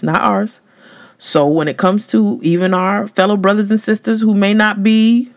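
usual speaking voice

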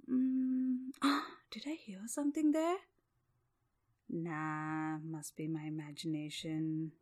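drowsy, hushed, half asleep; sleepy whisper. Acted. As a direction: mumble while dozing off. Drowsy prince hears noise.

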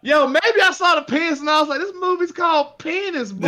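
high, disbelieving mock outrage; incredulous outburst. Real, not acted. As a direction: act floored by the title Penis. Mock outrage at movie title.

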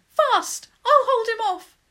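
high-pitched, loud command; urgent shout. A narrator's reading. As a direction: shout urgently to send a friend running. Urging George to flee from Griffin.

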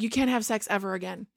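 quick, soft and giggling; laughing mock translation. Ruby mistranslating for her parents, laughing. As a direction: rush it out through a laugh. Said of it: "And Ruby's like".

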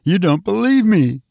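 hurt, insistent outburst; indignant. Acted. Lois accuses the doubting commissioner.

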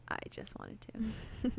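slow, soft, menacing quote; creepy killer. Retold or imitated. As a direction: drag it out like a creepy stalker. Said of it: "He says".

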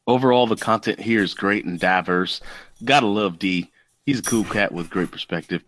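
reading a review lightly in a character voice; lightly voiced reviewer reading aloud; Kenwood voice. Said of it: "read it in Kenwood's voice".

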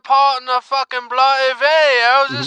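loud, high, fast furious rant; angry rant. Acted. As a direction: rant it out in outrage. Caller character rants about Zo.

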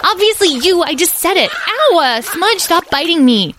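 put-on very high, loud bratty child; squabbling yell. Edwin fights his siblings in the water, squabbling yell. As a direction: snap back, then yelp in pain.

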